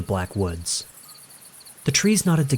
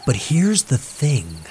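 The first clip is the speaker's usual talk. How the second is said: storyteller tone; 4 semitones higher, slower than usual. A narrator's reading. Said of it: "his voice dropping into his storyteller tone".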